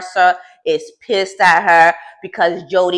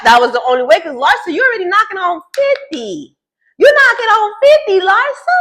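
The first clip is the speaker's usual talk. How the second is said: high, loud exasperated scold; 5 semitones higher, 3 dB louder than usual. Real, not acted. Vlogger scolding crying Larsa in a high, loud, exasperated voice. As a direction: snap her out of it with blunt high outrage.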